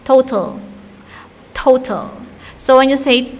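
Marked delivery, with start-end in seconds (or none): 0.0-0.6 "total" as TOH-tul, no clear A; first syllable of "total" stressed, second reduced; English pronunciation. Shown as a demonstration. Teacher shows how English speakers pronounce it, "total" as TOH-tul. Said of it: "they pronounce it as". 1.5-2.1 "Total" as TOH-tul, weak second vowel; English pronunciation. Shown as a demonstration. Teacher models the English word for learners, "Total" as TOH-tul. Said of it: "they pronounce it as".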